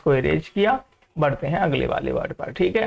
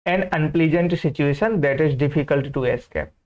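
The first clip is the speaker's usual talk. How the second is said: very slow reading; 3 semitones lower, much slower than usual. Shown as a demonstration. Teacher reading the example sentence to students, very slow. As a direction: read the example slowly, word by word. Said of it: "teacher reads definition".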